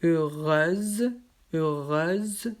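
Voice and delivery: "Heureuse" with a voiced Z for the S; heureuse with a Z sound. Shown as a demonstration. Teacher modelling "heureuse" with a Z sound for students. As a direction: say "heureuse" as eu-reuze, S buzzing like Z. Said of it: "avec un son Z pour le S".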